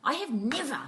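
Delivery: laughing quote. Retold or imitated. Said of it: "Fleur said to me afterwards".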